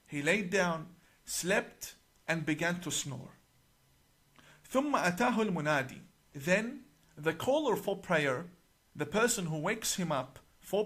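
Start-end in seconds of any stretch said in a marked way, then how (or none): 4.7-6.0 quick recital of Arabic scripture; Arabic recitation. Shown as a demonstration. Speaker quoting the hadith before translating it, quick Arabic recitation. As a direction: recite the Arabic line briskly, fast. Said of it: "I will recite in Arabic".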